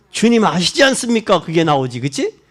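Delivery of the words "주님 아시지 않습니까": fervent plea. Acted. Believer's confession to the Lord.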